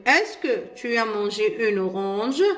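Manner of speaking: very slow, clear French question; slow model question. Shown as a demonstration. Teacher asks pupils the example question, slowly. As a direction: ask it slowly so pupils catch every word. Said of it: "كي نسألك أنا نقول لك".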